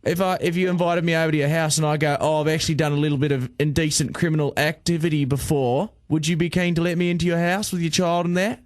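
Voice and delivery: hammed-up Aussie accent; put-on Australian accent. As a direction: play a blunt Australian official. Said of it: "my awful Australian accent".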